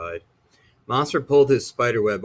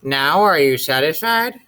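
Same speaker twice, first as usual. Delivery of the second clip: 1 exasperated mother; 4 semitones higher, 6 dB louder than usual. A narrator's reading.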